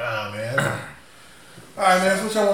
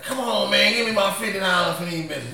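higher, pleading hustler; crackhead voice; 5 semitones higher than usual. Retold or imitated. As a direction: haggle like a crackhead. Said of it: "they got a certain tone and pitch".

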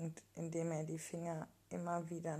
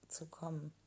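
whispered. Acted. Breathless whisper mid-sex.

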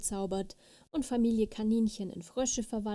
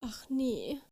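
understated cry of sudden dismay; a mild "oh no" with a swooping rise; 3 semitones higher than usual. A narrator's reading. Little fairy remembers what she did, crying out mildly. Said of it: "schrie die kleine Fee".

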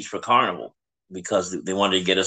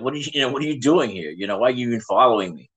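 mildly freaking out; 3 semitones higher, faster than usual. Retold or imitated. Daughter confronting the father who followed them, mildly freaking out. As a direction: imitate a rattled daughter, rushing the questions. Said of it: "like, freaking out".

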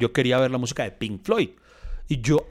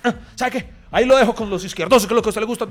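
mock angry; 5 semitones higher, 3 dB louder than usual. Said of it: "el man se emputó y dijo".

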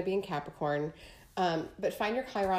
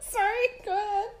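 wheezing through laughter; breathless squeaky laugh, barely getting words out; wheezy voice; 13 semitones higher than usual. Real, not acted. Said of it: "I'm wheezing".

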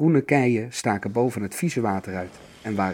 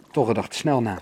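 plain reading voice

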